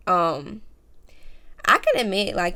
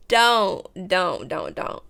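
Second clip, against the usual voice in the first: pleading don'ts; 3 dB louder, much slower than usual. Real, not acted. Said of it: "don't fight me when I say this".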